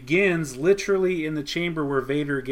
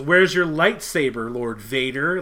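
slow, louder taunting retold line; mocking; 5 dB louder than usual. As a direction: sneer it at Vader to goad him. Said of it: "Like, mocking him".

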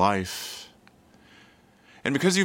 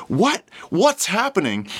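high, loud startled question; astonished; 6 semitones higher, 4 dB louder than usual. Acted. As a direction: ask in amazed disbelief. Astonished onlooker voiced in story.

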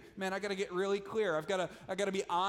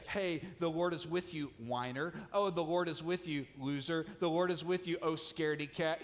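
mocking angel. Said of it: "He doesn't say that".

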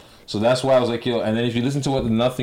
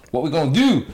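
put-on Baltimore accent, pitched up; mock Baltimore accent, a bit higher; 5 semitones higher, 3 dB louder than usual. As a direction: imitate Baltimore street talk. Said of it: "That's Baltimore".

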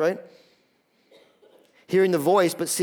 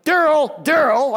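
put-on higher, louder call of a child's name; parent calling; 7 semitones higher, 5 dB louder, slower than usual. Mom and dad calling their son, insistent. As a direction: call out sharply for attention. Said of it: "Anytime my mom and dad were like".

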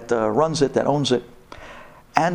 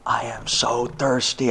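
hushed night whisper from the wife; whispered thirst; 5 semitones lower, 4 dB quieter, slower than usual. Retold or imitated. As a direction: whisper it, half asleep and parched.

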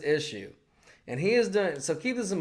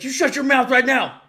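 high, louder mock scolding, hammed up; mock angry Joy Behar; 8 semitones higher, 5 dB louder than usual. Joy Behar snapping at Norm, mock angry high scolding. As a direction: scold him like a furious aunt. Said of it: "Joy's like".

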